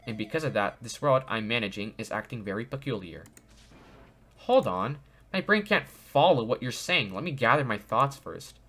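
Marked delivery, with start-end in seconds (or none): 0.1-3.2 lightly robotic AI voice. Acted. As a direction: read it like a calm robot. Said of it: "it's like a robotic voice".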